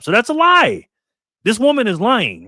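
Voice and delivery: angry accusation. Real, not acted. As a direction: fire it back as an accusation. Calling coach a liar.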